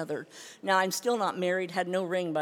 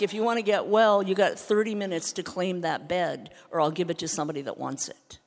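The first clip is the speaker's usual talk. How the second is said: louder, blunt no-nonsense ultimatum; stern detox worker; 7 dB louder than usual. Retold or imitated. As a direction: give her a hard deadline. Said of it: "he was like".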